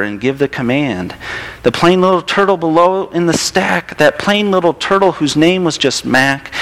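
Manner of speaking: lilting, expressive picture-book narration; storybook read-aloud. A narrator's reading. Reading a turtle story to a child in church, storybook read-aloud.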